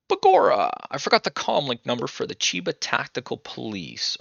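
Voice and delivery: high, hammed-up Irish exclamation, easing off after the first word; mock Irish accent. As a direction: burst out like a bad stage Irishman. Reads stage-Irish line in game.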